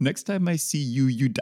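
runs straight on into "you die" with no pause. Repeating a movie line reading, with no pause before you die. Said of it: "There's no space".

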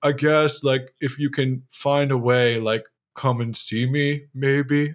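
acted, very depressed, slow, glum delivery. Imitating own past invitation wording: imitating a depressing invitation. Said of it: "most depressing fucking invitation".

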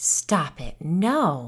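said on a breath. Told news of a church, the narrator answers: breathed. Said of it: "I breathed".

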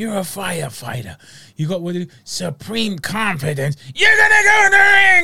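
dramatic American hype voice building to high, loud shout. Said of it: "he's so dramatic and American".

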